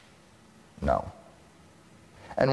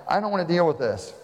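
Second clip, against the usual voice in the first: weary Pilate; 7 semitones higher than usual. Retold or imitated. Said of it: "Pontius Pilate is saying".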